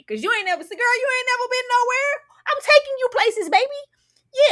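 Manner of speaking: mock pimp sweet talk; boastful player. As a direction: lay on the charm thick. Voicing his boastful pimp talk.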